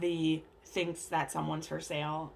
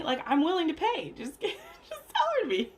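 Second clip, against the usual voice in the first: laughing mock plea; 11 semitones higher, 3 dB louder than usual. Earl insisting, laughing.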